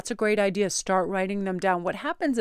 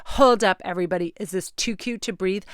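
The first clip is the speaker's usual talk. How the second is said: put-on loud, gushing teen girl in a store; mock valley girl; 6 dB louder than usual. Mocking a teen girl at Claire's, gushing loudly. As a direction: ham up the shopping-girl gush. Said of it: "she kept talking like that".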